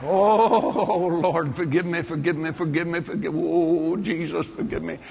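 lightly hammed-up repentance; mock contrite pleading. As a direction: re-enact a sheepish plea, fading as it repeats. Acting his repentant reply to God.

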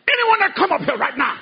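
imitated preacher. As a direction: call folks forward like an odd revival preacher. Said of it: "he talked like this".

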